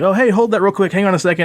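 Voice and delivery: acting casual. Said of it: "I was like".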